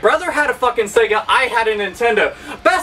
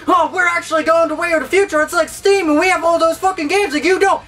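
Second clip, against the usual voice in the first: fast, higher smug voice; mocking Xbox fanboy; 6 semitones higher, faster than usual. Mocking a smug Xbox fanboy, fast and higher. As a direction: rattle it off like a smug fan. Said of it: "Xbox fanboys are like".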